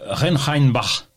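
slow, drawn-out Munich German accent on request; attempted Munich accent. Shown as a demonstration. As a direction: have another careful go at a Munich accent. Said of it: "c'est ça l'accent munichois?".

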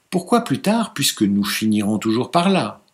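beg, but with an edge; pleading but brusque. Acted. Husband pressing his reluctant bride, pleading and brusque. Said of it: "d'un ton toujours suppliant, mais plus brusque".

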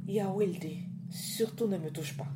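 lightly voiced mother cautioning her child; mother's warning. A narrator's reading. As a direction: warn your son urgently, pitched a little up. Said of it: "Les premiers mots qu'elle lui dit".

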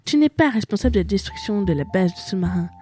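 put-on French read in an American accent. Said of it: "Pourquoi tu parles avec un accent américain?".

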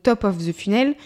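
English phrase in a French accent. Real, not acted. Coach explaining funnel terms to learner, French-accented English. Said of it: "pardon, pour mon accent anglais".

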